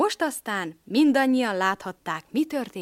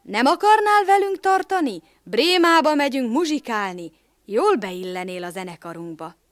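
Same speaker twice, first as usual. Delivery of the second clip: inviting; 4 semitones higher, 8 dB louder than usual. Acted. Donkey invites rooster.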